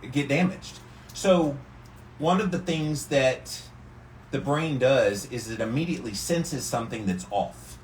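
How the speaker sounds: speaking calmly while sitting in ice water; in an ice bath. Real, not acted.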